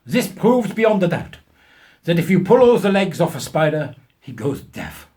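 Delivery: mock German professor. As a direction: ham up a self-important German scientist. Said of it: "of German extraction".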